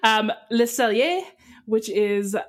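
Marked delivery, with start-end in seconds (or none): 0.5-1.2 French pronunciation of the name; French accent. Real, not acted. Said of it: "I can say that one with a French accent".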